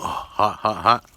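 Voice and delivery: sharp "hot, hot" as it burns; yelping at a burning hand; burnt hand yelp. Real, not acted. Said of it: "burning my hand".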